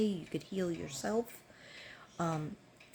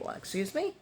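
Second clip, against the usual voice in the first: indignant retort; 9 semitones higher than usual. Retold or imitated. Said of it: "I go".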